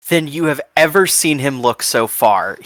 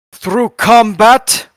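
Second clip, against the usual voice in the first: Bazbeer's answer; 7 semitones higher, slower than usual. Acted. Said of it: "will say".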